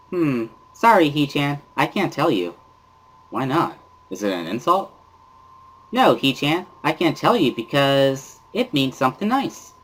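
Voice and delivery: high-pitched cheerful schoolgirl voice; bubbly Misha. Acted. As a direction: chirp it up high like an eager little girl. Misha refusing to translate.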